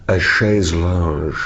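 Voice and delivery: "chaise lounge" drawn out slowly, ending French-style like "lon". Shown as a demonstration. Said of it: "I like to put the Z in there".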